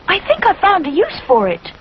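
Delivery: put-on high boyish bear; eager small boy; little bear voice. A narrator's reading. Rupert telling his mother, childlike.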